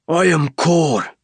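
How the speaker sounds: high, slow alien voice, measured; name yourself like a leader; commanding alien leader. Acted. Kor to the human soldier: slow, high, commanding.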